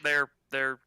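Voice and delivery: a low, matter-of-fact innkeeper. Acted. Game master continues as innkeeper.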